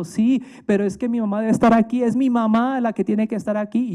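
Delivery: lightly voiced girl, mock crying; crying little girl. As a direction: imitate a five-year-old pleading for mom. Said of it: "Y lloraba la chinita".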